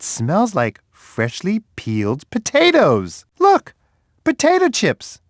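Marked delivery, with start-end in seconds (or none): 3.4-5.2 very high, delighted exclaim; excited discovery. Acted. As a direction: point out the find with joy. Discovering the smell's source.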